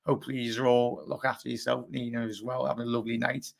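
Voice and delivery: hoarse, groggy morning voice. Real, not acted. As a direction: talk through a rough, groggy throat. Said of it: "apologies about me groggy voice".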